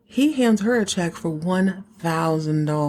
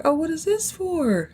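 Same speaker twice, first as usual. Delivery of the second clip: surprised; 11 semitones higher than usual. Retold or imitated. Lucy surprised by check.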